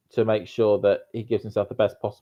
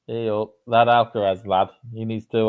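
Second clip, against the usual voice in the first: Yorkshire verging on Mancunian; broad Yorkshire accent. Shown as a demonstration. Co-host demonstrating natural accent under pressure, broad Yorkshire. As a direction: lay on the broad northern Yorkshire vowels. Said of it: "I can get quite broad that way".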